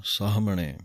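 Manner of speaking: ਸਾਹਮਣੇ with the h fully sounded; full h sound. Shown as a demonstration. Teacher showing the full h in ਸਾਹਮਣੇ. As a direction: say saah-mane, h clear. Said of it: "ਪੂਰੇ ਹਾਹੇ ਦੀ ਆਵਾਜ਼ ਦੇ ਕੇ ਬੋਲਣਾ ਹੈ".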